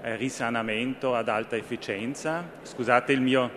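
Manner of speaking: Italian spoken with an Austrian accent; careful Italian with an Austrian accent. Real, not acted. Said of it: "Scusate il mio, eh, italiano un po', eh, austriaco". (italiano con accento austriaco)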